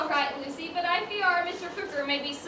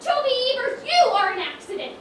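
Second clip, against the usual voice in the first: put-on sharp, louder put-down of the boy; scolding; 4 semitones higher, 4 dB louder, faster than usual. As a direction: scold him, cutting. Scolding the clumsy young man.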